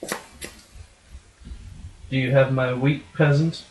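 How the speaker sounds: slow, menacing puppet lord; goofy muffled sock puppet. Acted. Lord demands wheat in skit.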